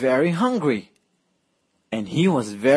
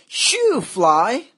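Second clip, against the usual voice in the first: shooing shout; 8 semitones higher than usual. Acted. Girl chasing fly away.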